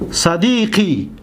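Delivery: صدیقی stretched out slowly and clearly; slow demonstration. Shown as a demonstration. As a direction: say صدیقی slowly so students hear each sound. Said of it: "دقت بتید". (صدیقی را آهسته و واضح تلفظ کن)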